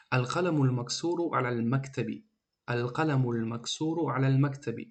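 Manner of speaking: "Ал-қаламул максуру алал мактаби" read smoothly as one linked phrase; flowing, connected "Ал-қаламул максуру алал мактаби"; fluent reading. Shown as a demonstration. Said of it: "бояд ҳамин хел равона бихонед".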